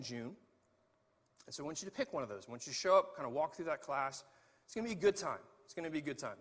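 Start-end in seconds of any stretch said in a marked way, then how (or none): 4.6-5.4 bright, sold-hard promise; upbeat promise. Shown as a demonstration. Pastor promising members the class will be fun, upbeat. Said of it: "Maybe not". 5.6-6.4 same line said lower and softer, unsure; doubtful repeat. Shown as a demonstration. Pastor second-guessing his own class pitch, deflating. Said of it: "Maybe not".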